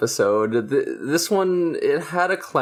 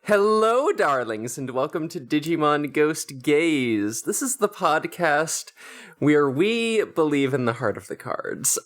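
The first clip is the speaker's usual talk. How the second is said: campy drag queen. Acted. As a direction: play it like a drag queen hosting. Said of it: "let me retake that".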